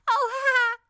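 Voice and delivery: high, loud cackling "Oh, ha!"; crackling witch laugh. Acted. Tickled old witch cackles at the kitten. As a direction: crackle it out while being tickled. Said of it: "crackled the old witch".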